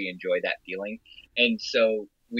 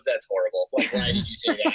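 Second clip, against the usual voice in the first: imitated disapproving partner. Imagining her partner's reaction mid-moment, mock horror. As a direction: act out a partner's horrified reaction. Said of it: "And she goes".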